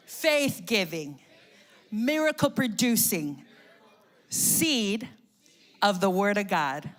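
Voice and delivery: loud, measured call-and-response, pausing between phrases; loud congregational declaration. Real, not acted. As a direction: lead the church in a bold confession. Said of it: "y'all can do better than that".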